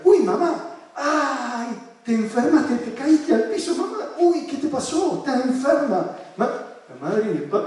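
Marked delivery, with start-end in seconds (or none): 0.0-6.2 playful alarmed shouting. Retold or imitated. Therapist to mom on video call, mock alarmed cries. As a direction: cry out in pretend panic, much higher. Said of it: "de repente empecé a gritar".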